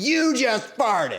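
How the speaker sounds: mock, very high accusatory shriek. Retelling a fellow Uber rider's accusation, imitating someone screaming. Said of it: "Screams it".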